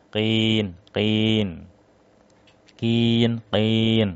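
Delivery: "qin" heavy from the throat; thick qin. Shown as a demonstration. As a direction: deepen each "qin". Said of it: "Kan beda, ya". ("qin" tebal)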